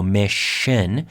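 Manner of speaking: slow "mission", lingering on the sh; drawn-out sh in mission. Shown as a demonstration. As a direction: stretch "mission" into MISH-shun. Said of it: "como shh, shh, silencio".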